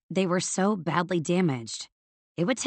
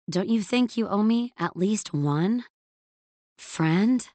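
wounded innocence; 4 semitones higher than usual. A narrator's reading. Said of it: "with wounded innocence".

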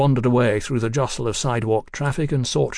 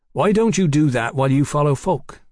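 raised, louder burst of an idea; sudden inspiration; 4 semitones higher, 5 dB louder than usual. A narrator's reading. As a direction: propose it as if it just struck you. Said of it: "in a burst of inspiration".

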